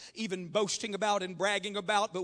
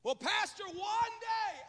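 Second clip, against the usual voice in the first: high, soft, stretched-out dreamy voice; mock wishful promise; 10 semitones higher, 4 dB quieter, slower than usual. Young people putting off serving to their pastor, mock-wishful. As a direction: imitate a starry-eyed procrastinator. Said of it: "I call it the destination disease".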